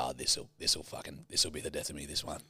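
a hint of doom, dragged out low; mock despair. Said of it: "And I go".

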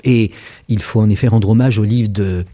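ordinary talk

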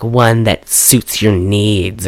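low, slow imitation of a come-on; lightly acted sultry innuendo; mock seductive. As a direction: play the flirty heroine, drawing it out. Acting out heroine's innuendo.

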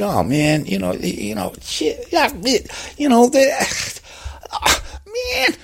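high-pitched exasperated American; David Fincher. Acted. Director upset at a ruined take, high agitated sputter. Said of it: "he got really, you know, quite upset".

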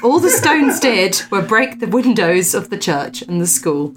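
lifted, measured storyteller's voice; story narration. Acted. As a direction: read the old ghost tale aloud with emphasis. Reads a ghost story aloud.

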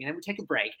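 softly voiced English MC, matter-of-fact; imitating English MC. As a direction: lightly imitate the host announcing a break. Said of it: "She comes up, she goes".

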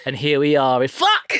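scared presenter. Pretend. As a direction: pretend sudden fright. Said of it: "that is really scared of ghosts".

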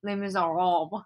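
lightly attempted French accent. Shown as a demonstration. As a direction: have a clumsy go at French pronunciation. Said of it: "try to say it like a French person".

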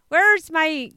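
slight West Country burr; West Country attempt. Co-host groping for a farmer's phrase, tentative West Country. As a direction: feel for a West Country accent. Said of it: "give us some West Country".

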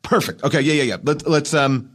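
high, rushed, laughing yes-yes-yes; gushing director. Retold or imitated. Director hyping the actor with high gushing praise. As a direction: oversell it like he loves everything. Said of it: "So he's like".

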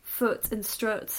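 "Foot and strut" both with the same oo vowel, said slowly; slow, deliberate northern "Foot and strut". Shown as a demonstration. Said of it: "in the north they would both be like".

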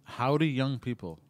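slow, drawn-out howdy to the youngins; slow mock cowboy howdy; folksy greeting. Shown as a demonstration. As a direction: greet the kids like an old cowboy, slowly. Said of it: "That's how you speak to the youngins".

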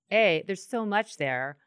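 emotional laugh in the voice. Real, not acted. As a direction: let a laugh slip in while moved. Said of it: "I have tears in my eyes".

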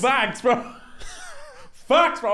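laughing agreement. Real, not acted. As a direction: shout it through a laugh.

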